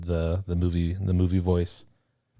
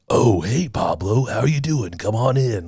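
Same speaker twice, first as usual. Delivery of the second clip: movie trailer voice; 3 semitones higher, 3 dB louder, slower than usual. Retold or imitated. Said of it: "that dude just talks like that all the time".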